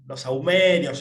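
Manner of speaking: dismissive, mocking tone about incense; scoffing skeptic. Imitating his old arrogant self scoffing at incense, mocking. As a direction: sneer at it like a smug skeptic. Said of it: "yo hablaba así".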